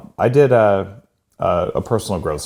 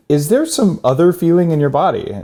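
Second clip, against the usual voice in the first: quoting the psychologist; 8 semitones higher than usual. Retold or imitated. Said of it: "finally she said".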